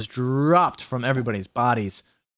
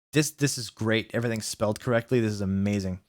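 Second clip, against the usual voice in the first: soft, low mock wonder; sarcastic awe; 4 semitones lower, 5 dB quieter than usual. Real, not acted. Reader quietly marvelling at correct spelling. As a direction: marvel at it drily.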